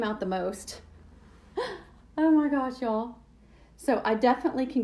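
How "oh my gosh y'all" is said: surprised. Real, not acted. Reacts to stencil result.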